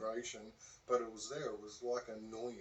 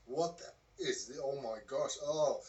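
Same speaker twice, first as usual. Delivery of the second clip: raised, louder retold shock; acted startled exclamation, growing louder; alarmed astonishment; 3 semitones higher, 6 dB louder than usual. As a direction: react aloud to something uncanny, building. Retold shock at strange vibration.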